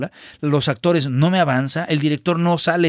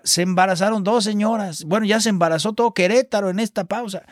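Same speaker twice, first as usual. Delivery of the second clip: raised, exasperated mock complaint; mock inner yell; 7 semitones higher than usual. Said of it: "en mi cabeza gritaba".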